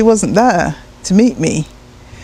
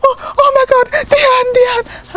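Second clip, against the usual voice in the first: high, gushing apologies while kissing; doting mum. Retold or imitated. Mum kissing her daughter, gushing high voice. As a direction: fuss over the child lovingly. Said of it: "she was like".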